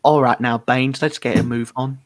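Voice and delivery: lightly put-on Northern English accent; Nathan impression. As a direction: attempt a Northern English voice, sliding toward Cockney. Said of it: "that's my impression of Nathan".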